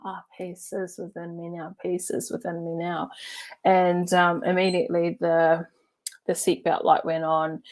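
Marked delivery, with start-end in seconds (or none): 0.0-3.1 soft, calm murmured mantra; serene mantra. Retold or imitated. Two friends in their zone during turbulence, serene chanting. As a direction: chant it quietly to yourself, unbothered. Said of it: "in the ambiance of".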